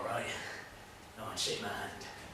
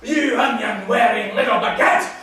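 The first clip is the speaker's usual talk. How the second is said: loud, high, heated jibe; furious name-calling; shouted insult; 8 semitones higher, 10 dB louder than usual. Acted. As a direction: yell the insult back at him.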